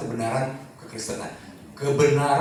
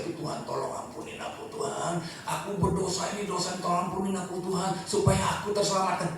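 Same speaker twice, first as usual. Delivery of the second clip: mock pleading prayer; 3 semitones higher, 4 dB quieter than usual. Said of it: "Bukan lagi dengan motivasi".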